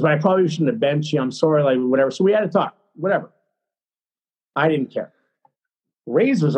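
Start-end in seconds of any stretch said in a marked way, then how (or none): 0.0-1.6 fast, dismissive mimicry; mocking repeat. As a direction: rattle it off mockingly. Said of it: "And he goes, like, whatever".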